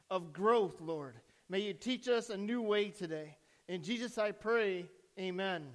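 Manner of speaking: measured, level praying voice; opening prayer. Real, not acted. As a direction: address God in an even, earnest prayer.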